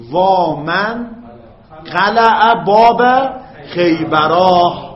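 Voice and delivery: slow, stretched Arabic lament with a long وا; drawn-out lament. Shown as a demonstration. Teacher demonstrating a lament to students, slow and drawn out. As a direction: stretch every syllable like a mourner's cry. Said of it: "ها؟".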